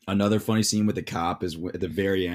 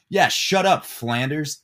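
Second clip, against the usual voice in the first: put-on high, louder bratty kid voice; Bart voice; 6 semitones higher, 6 dB louder, slower than usual. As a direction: snap it like a cheeky boy hanging off a roof. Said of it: "And Bart ... goes like".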